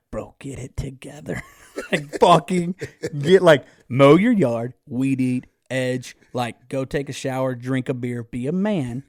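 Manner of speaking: loud pep talk to himself; loud self pep talk after crying on the mower; self-scolding. Retold or imitated. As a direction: bark orders at himself.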